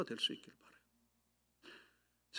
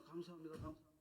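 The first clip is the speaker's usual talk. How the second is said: door greeter voice; 22 dB quieter, faster than usual. Retold or imitated. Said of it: "감사 조언에 발만 띄우면요".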